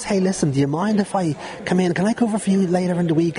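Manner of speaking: high, squeaky, pleading request. Retold or imitated. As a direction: imitate a squeaky kid asking a favour. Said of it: "in my squeaky voice".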